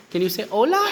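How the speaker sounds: excited high coaxing. Real, not acted. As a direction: cheer the parrot on to talk. Asking bird to talk.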